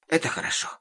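put-on high-pitched relieved girl; relieved sigh. A narrator's reading. Girl relieved to hear papa is away, relieved. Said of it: "Девочка облегчённо вздохнула".

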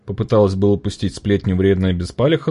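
ordinary delivery

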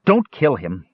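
understated narrated shout. A narrator's reading. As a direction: plead in a mild shout.

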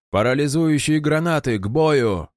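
high barked command; gruff barked parade orders. A narrator's reading. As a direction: snap out the order. Sergeant commanding troops.

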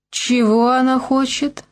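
usual speaking voice

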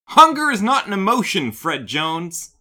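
high, loud exasperated yell; Daphne. Retold or imitated. Co-host retelling how she snaps at Fred, mock yelling. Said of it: "to which Daphne yells".

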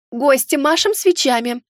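husky cooing into a mic. A narrator's reading. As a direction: coo it huskily. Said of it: "хрипло проворковала ведущая в микрофон".

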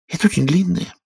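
high little mouse voice, sighing; a sad mouse sighs out her tale; squeaky mouse with a sigh. A narrator's reading. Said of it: "начала мышь со вздохом".

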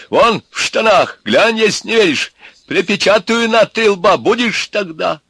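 очень высокий, громкий голос от страха; кричать тонко, храбрясь перед змеем; высоко и крепко. A narrator's reading. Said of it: "стал вдруг набирать высоту и крепость". (испуганно-напористо, на высоких нотах)

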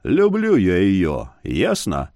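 low, slow grumble; grumbled. A narrator's reading. Husband answering the youth with a low, slow grumble. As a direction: mutter it, not turning round. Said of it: "буркнул".

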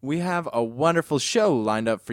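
upbeat radio host intro. Acted. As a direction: announce it like a DJ.

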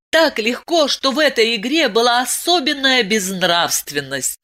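ordinary delivery

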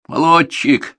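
loud, high, approving; pleased, emphatic commendation; hearty praise. A narrator's reading. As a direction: praise a pupil like an instructor. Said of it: "похвалил он".

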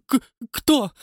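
high, loud stammered question; stammering terror. A narrator's reading. Watchman stammers at the count, lips trembling. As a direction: stutter in fright. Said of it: "Губы его дрожали, язык немел".

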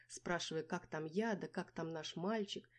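usual speaking voice

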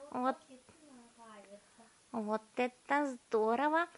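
high, slow relishing; savouring girl. A narrator's reading. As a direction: taste each dish aloud. Violetta savouring the meal.

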